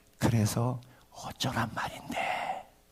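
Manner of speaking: soft slow calm tone.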